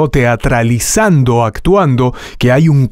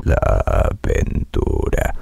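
cramped, slow, too-small trailer read; tight small voice; 6 dB quieter, much slower than usual. Shown as a demonstration. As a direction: squeeze the voice small. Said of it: "muy apretado, muy pequeñito".

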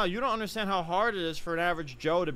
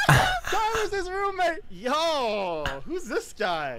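higher and louder, shouted through laughter; laughing shout; 4 dB louder, slower than usual. Real, not acted. A woman shouts through laughter that the match is her friend's roommate. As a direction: blurt it out while cracking up.

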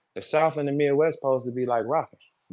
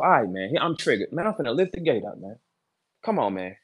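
inner demon voice; 4 semitones lower than usual. Retold or imitated. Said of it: "I'm talking to the demon now".

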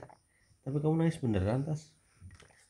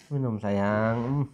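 soothing; 5 semitones lower, much slower than usual. Real, not acted. Father soothing crying child.

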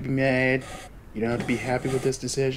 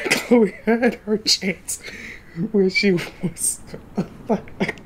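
higher, louder, very slow mock-solemn delivery; mock dramatic; 8 semitones higher, 3 dB louder, much slower than usual. Streamer mocking Chloe's fate to viewers, hammed-up slow solemnity. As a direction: stretch it out like a hammy eulogy.

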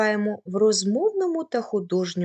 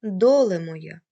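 a lightly recited folk line, louder than the lecture; poetic recitation; 4 dB louder than usual. Shown as a demonstration. Teacher quoting a folk song line to her students, lightly recited. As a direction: start the quoted verse with a little feeling. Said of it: "Наприклад".

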